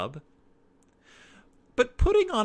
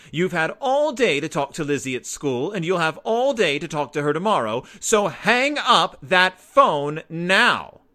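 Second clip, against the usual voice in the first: a mother's firm scolding, rising louder at the end; stern mother; 5 semitones higher, 6 dB louder than usual. A narrator's reading. Mama telling Sister to hang up the phone, firm scold. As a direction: lay down the law, slowing to a firm stop.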